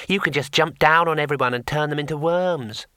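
eager, high little imp voice; encouraging imp. Acted. Imp urging wizard to transform everyone, encouraging. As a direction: cheer him on brightly. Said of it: "the imp added encouragingly".

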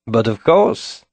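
put-on slow, smug French accent; drawn-out teasing French accent; annoying French way. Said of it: "in that annoying French way".

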